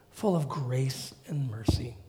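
breathy hushed whisper. Real, not acted. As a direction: drop to a whisper on grace and mercy. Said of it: "whispered line".

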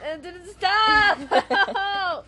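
high yelp of protest; pained shout. Pretend. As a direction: cry out to make it stop. Being beaten with blanket.

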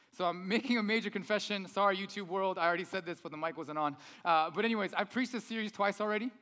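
loud projecting preacher voice. Real, not acted. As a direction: speak up loudly to the room. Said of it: "Man, my voice is that loud".

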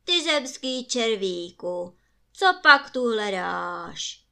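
loud booming bellow, slowing at the end; roaring giant. Acted. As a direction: roar it down at a tiny human. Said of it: "zařval".

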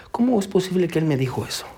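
whispered inner thought. Retold or imitated. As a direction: hush it as if thinking aloud. Gangster's inner thought while returning. (susurro del pensamiento del mafioso)

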